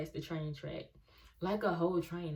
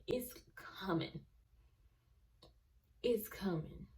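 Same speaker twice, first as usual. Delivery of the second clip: breathless suspense whisper; tense storytelling whisper; hushed whisper; 3 semitones higher, 5 dB quieter than usual. Retold or imitated. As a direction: whisper it as the train nears. Train approaching, tense retelling.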